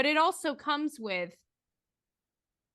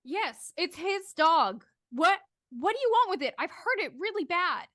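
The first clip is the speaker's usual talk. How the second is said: put-on a frightened girl pleading about the dog; anxious girl; 5 semitones higher than usual. Girl in the pit answering the stranger, higher and anxious.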